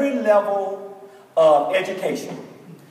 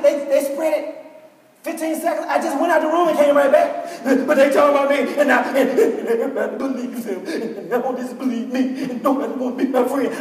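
imitating a crying girl, voice pitched up; mock boo-hooing; 3 semitones higher than usual. Sobbing girl to her teacher, mock boo-hooing. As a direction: play the upset kid blubbering through her complaint. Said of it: "just boo-hooing".

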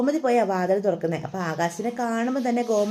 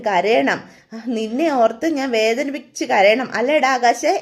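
defiant shouting; 4 dB louder than usual. Acted. Slapped son shouts defiantly.

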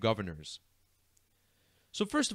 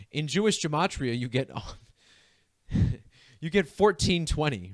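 words breaking into real giggles; can't keep a straight face while reading numbers; laughing. Real, not acted. Host cracking up over the gay governor numbers, giggling through it. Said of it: "I can't even hold my laughter".

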